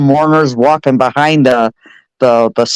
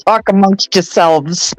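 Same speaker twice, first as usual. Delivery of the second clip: Coffee Talk skit voice. Pretend. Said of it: "I just love that skit".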